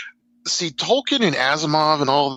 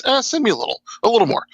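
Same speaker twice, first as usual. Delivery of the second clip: higher, offhand agent asking for a little more; lightly voiced casual agent; 9 semitones higher, much faster than usual. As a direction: toss it off like a bored agent. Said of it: "before anybody even says".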